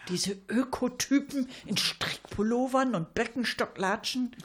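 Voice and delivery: scornful whispered sneer; mocking whisper. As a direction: hiss it out with contempt. Spöttische Frage der Fürstin. (spöttisch geflüstert)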